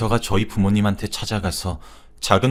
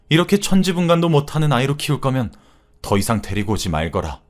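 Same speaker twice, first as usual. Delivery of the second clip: lightly voiced stern elder, pitch climbing; reproachful mother-in-law; 4 semitones higher, 3 dB louder than usual. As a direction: rebuke a daughter-in-law, mildly indignant. Voices mother rebuking daughter-in-law. (며느리를 나무라는 시어머니 말투로)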